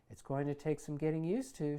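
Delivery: smirking. Acted. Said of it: "she says, smirking".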